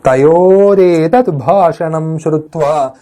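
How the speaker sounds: slow, measured reading of a verse text; slow Sanskrit recitation. Acted. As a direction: recite each phrase slowly for the class.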